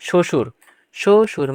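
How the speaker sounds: শ্বশুর as "sho-shur", no b sound; silent b. Shown as a demonstration. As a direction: model শ্বশুর twice, b left silent. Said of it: "ব থাকবে সেটা উচ্চারণ হবে না".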